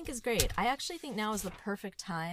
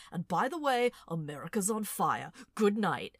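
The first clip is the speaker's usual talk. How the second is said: louder, brisk sign-off; a mock host sign-off, a bit louder; John Oliver impression; 4 dB louder than usual. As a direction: drop the bomb and sign off. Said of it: "John Oliver impression".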